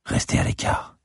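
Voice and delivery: whispered order to stay back; whispered breath. A narrator's reading. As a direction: say it under your breath, all whisper. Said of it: "dis-je en un souffle". (chuchoté dans un souffle)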